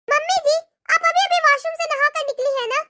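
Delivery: a lightly voiced, sharp young daughter-in-law; scolding daughter-in-law. Daughter-in-law scolding her mother-in-law, sharp and contemptuous.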